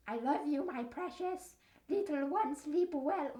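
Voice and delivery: mock endearment. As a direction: coo it as a parody of tender talk. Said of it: "Like, who talks like that?".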